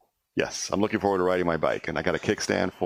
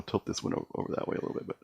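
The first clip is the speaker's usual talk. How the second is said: trailing off; 8 dB quieter, faster than usual. Real, not acted. Adjusting camera, voice fades.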